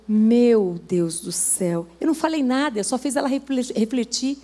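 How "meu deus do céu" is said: stunned lament. Retold or imitated. Woman realizing her mistake.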